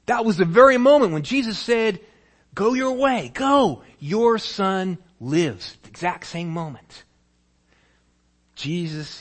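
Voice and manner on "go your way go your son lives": high, loud commanding words; strong proclamation. Acted. Jesus telling the father his son lives, loud and commanding. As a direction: proclaim it with authority.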